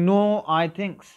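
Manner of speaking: loud shouted No, I thinks; screamed. Acted. Teacher repeating Makara's scream at the crocodile, loud shout. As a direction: shout it at the top of the voice. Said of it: "screamed and shouted at the top of his voice".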